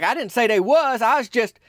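backing off flustered; Myron protesting. Retold or imitated. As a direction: Myron defends himself to the rival team, flustered. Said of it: "And Myron's like".

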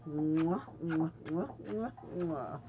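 smacking air kisses; blown kisses. Real, not acted. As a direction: blow kisses to the listeners. Blowing kisses to listeners.

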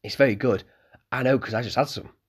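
put-on eager young innkeeper's son; young Malcolm.

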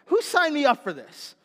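a loud, high-pitched repeat of the line; punchline repeated loud. Retold or imitated. Preacher belting the boy's line back to the congregation. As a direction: hit the punchline hard for the congregation.

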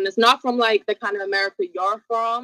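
tentative put-on American accent; attempted American accent. Shown as a demonstration. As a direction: try an American accent, unsure of it. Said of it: "Let me see your American accent".

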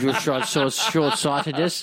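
slow, stumbling slurred words; slurring. Real, not acted. Tipsy host argues back at co-host, slurring. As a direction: trip slowly over the words, half laughing. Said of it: "I'm slurring some more words".

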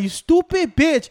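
high, slow mock cursing; retold outburst at the phone; acted exasperation. Acts out cursing at bank call.

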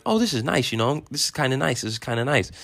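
retold excitement. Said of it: "you get excited".

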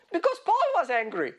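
high-pitched, breaking into laughter; tickled, laughter creeping in; amused. Real, not acted. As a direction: laugh as the words finish. Amused by Paul's anger.

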